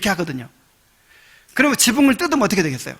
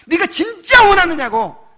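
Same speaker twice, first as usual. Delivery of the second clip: testing challenge; 10 semitones higher, 6 dB louder than usual. Acted. Lord testing the believer.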